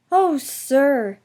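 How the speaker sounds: touched and delighted oh sir; happy. A narrator's reading. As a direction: glow with pride. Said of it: "whispered Percy happily".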